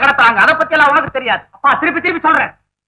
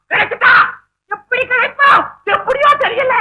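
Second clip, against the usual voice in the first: excited shout; 9 semitones higher than usual. Acted. Excited shouting over found old woman.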